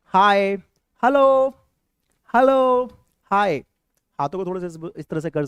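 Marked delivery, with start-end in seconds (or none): 0.0-3.6 loud, high, cheerful greetings; energetic teacher modelling hi and hello. Shown as a demonstration. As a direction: call them out bright and loud. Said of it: "दोनों word को एक साथ बोलेंगे".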